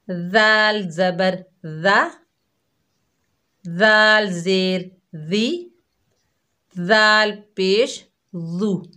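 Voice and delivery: दाल ज़बर ज़ा spelled slowly and softly; soft slow drill. Shown as a demonstration. Teacher drilling soft dhaal syllables for children. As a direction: say each vowel mark slowly with a soft dh. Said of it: "बहुत ही नरमी से हम अदा कर रहे हैं".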